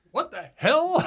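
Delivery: a loud, high, laughing "What the hell"; amazed. Retold or imitated. Retelling his amazement at the underground bar, laughing. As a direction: gasp it out, laughing.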